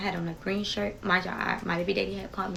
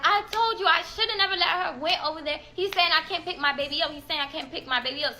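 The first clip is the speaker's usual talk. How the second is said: retold bawling; 7 semitones higher than usual. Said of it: "I immediately started bawling".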